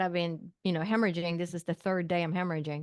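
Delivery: ordinary delivery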